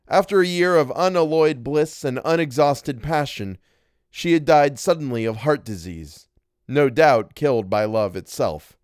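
measured, literary reading voice; story narration. A narrator's reading. Narrator telling of a wife's death, story narration.

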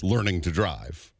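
ordinary delivery

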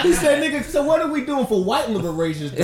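high laughing retold quote. Real, not acted. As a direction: tell it while cracking up. Laughing retelling friend's quote.

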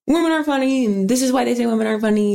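rattled off in mockery; mocking imitation. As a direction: parrot a dismissive heckler. Mimicking dismissive online comments.

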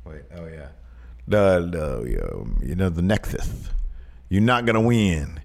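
lightly voiced old wrestling promo; light Dusty voice. Host as Dusty tells Cena to lose, a hint of drawl. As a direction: talk down to Cena, baby.

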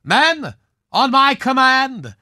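a touch of a grand swashbuckler villain, commanding; lightly hammed-up villain ordering his men; hammy movie villain. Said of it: "I recognize that speech".

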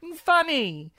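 high, slow forced laughter through the words; fake-laugh politely to cover confusion; polite social fake laugh. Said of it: "what I always do in social settings".

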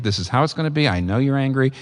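lightly voiced steady, gentle parent; mild, even firmness toward an angry child; calm and gentle. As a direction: calmly insist on the truth. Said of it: "but you just say very calmly".

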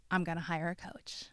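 retold husband, whispered softly; whispered admission. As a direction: whisper it like a quiet confession.

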